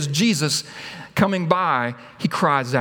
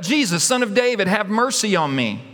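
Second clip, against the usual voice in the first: mild acted yell; 2 semitones higher than usual. Preacher voices blind beggar calling to Jesus, mild yell. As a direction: call out for mercy without real volume. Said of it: "He yells out".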